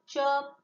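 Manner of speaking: chirpy bird call; bird chirp. Shown as a demonstration.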